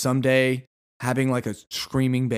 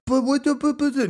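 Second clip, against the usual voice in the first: flustered salesman; 11 semitones higher than usual. Pretend. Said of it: "And be like".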